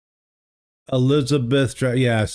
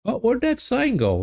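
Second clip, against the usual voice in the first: surprised; 11 semitones higher than usual. Real, not acted. Sign vanished while searching map.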